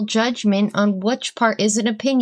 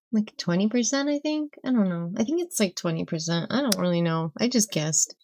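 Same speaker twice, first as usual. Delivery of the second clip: unsure; 6 dB quieter, faster than usual. Real, not acted. Unsure guess about a statistic.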